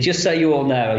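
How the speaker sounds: lightly imitated broad Brummie; mild mock-Brummie; broader Birmingham accent. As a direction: retell it with a touch of thick Birmingham accent. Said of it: "he's got a much broader accent".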